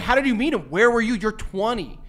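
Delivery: incredulous. Retold or imitated. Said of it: "I'd be like".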